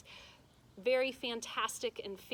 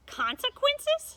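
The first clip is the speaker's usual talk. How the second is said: much higher, louder, slow mocking echo; incredulous witch; 10 dB louder, slower than usual. A narrator's reading. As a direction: scoff at the threat, witchy.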